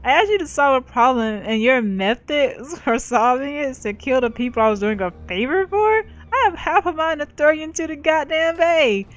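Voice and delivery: scolding, pitch climbing into incredulous question; irate client. Acted. Fixer berates the player over a botched job, irate. Fixer's angry message voiced by GM.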